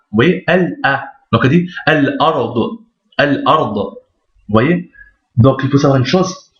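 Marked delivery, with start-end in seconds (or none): 0.5-1.0 "L A" in two detached pieces; separated syllables. Shown as a demonstration. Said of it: "séparément et sans liaison". 1.9-3.7 "Al-Ard" with a break after Al; teacher's detached "Al-Ard"; separated, no liaison. Shown as a demonstration. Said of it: "séparément et sans liaison".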